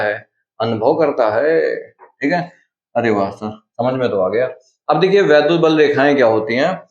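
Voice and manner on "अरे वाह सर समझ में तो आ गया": a lightly voiced, softer pupil going wow sir; pleased student. Teacher voicing students who got the field concept, light and pleased. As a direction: play the happy student who finally gets it.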